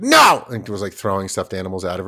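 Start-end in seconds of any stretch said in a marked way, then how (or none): 0.0-0.4 put-on high, loud childish "No!"; a little kid yelling her refusal; a defiant three-year-old screaming no; toddler's shouted no.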